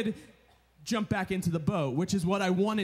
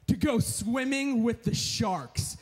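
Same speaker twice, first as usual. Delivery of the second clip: excited shout; 3 semitones higher, slower than usual. Retold or imitated. Husband telling his wife about the shark trip with a slow excited shout. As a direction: announce it to his wife like a grand surprise.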